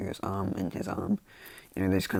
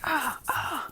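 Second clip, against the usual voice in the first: pained cries. Acted. Voices Bakugo hurt by pillar.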